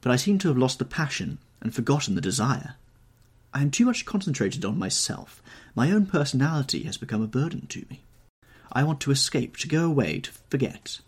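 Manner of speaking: acted outpouring of pathos; deep pathos. A narrator's reading. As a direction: plead with an anguished edge. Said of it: "a deep note of pathos in his voice".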